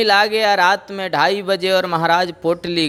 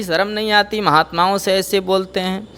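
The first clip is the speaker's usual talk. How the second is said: higher, sharp wifely scolding; wife rebukes her husband, higher scolding; 5 semitones higher than usual. Acted. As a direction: shame him in front of the saints. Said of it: "पत्नी डांट करके बोली".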